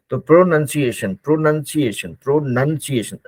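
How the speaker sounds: pronunciation repeated with "nun"; slow pronunciation with clear lip movement; careful pronunciation drill. Shown as a demonstration. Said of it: "lip का movement".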